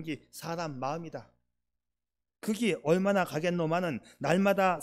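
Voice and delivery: Gyeongsang-accented reading with a rolling, up-and-down lilt; Gyeongsang dialect. Shown as a demonstration. Preacher reading a mother's written words to the congregation, in Gyeongsang dialect. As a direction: read it out in homely Gyeongsang dialect. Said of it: "경상도식으로 한번 읽어볼게요".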